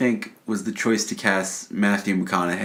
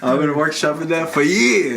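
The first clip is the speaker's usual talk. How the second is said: higher, squealed protest; mock indignation; 7 semitones higher, 4 dB louder than usual. Co-host defending his bad impression, high mock indignation. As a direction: whine it in pretend hurt.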